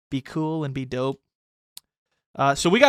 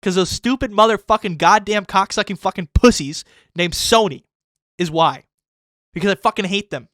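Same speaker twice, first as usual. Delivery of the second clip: exaggerated rant; 3 semitones higher, 4 dB louder than usual. Real, not acted. Ranting at Sony.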